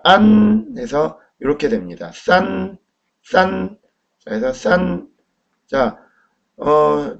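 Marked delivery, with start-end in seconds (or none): 2.1-3.8 싼 held high and level; first-tone demo. Shown as a demonstration. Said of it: "일 성, 싼". 4.5-5.1 Mandarin first tone on 싼; first-tone demo. Shown as a demonstration. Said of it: "일 성, 싼".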